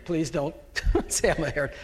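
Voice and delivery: quick, laughing aside. Real, not acted. Pastor joking to the congregation, laughing through the words.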